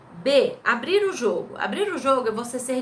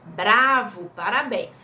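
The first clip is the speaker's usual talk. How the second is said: mild cheer; 4 dB louder, slower than usual. Shown as a demonstration. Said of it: "Pra dar aquela entonação".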